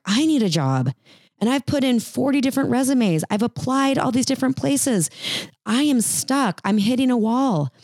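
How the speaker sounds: frustrated job seeker. Pretend. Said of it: "they're like".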